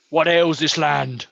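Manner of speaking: slow, weighty hero question; lightly voiced Minotaur hero; heroic voice. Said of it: "slight Minotaur aspect to him".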